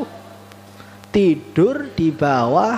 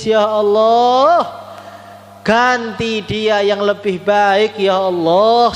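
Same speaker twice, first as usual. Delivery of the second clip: imitated tearful prayer; 4 semitones higher, much slower than usual. Beggar given the shirt prays for his giver, imitated tearful plea. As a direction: wail it slowly, stretching each phrase like a weeping supplicant. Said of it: "Maka yang dikasih itu nangis".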